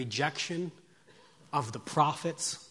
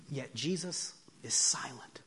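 hushed; 5 dB quieter than usual. Acted. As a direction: drop to a reverent hush. Hushed contrast with loud crowd.

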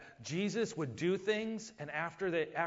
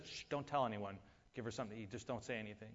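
much softer, low hushing voice; hushed whisper-like instruction; 6 semitones lower, 10 dB quieter, faster than usual. Retold or imitated. Jesus telling the family to keep quiet, softly. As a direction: hush them so no one hears.

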